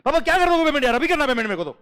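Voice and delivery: high, loud, laughing plea to his father; pleading whine. Retold or imitated. Son loudly begs his father for the payment, whining. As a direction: whine at dad for the money.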